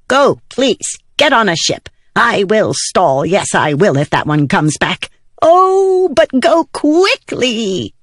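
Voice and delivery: very high, flustered pleading; urgent little spren. Acted. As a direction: squeak out an anxious send-off. Excited spren urges the fugitives to flee.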